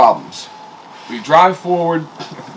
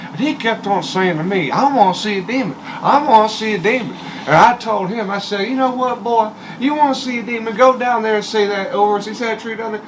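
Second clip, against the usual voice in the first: put-on old redneck guide; 5 semitones higher than usual. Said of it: "the old redneck dude".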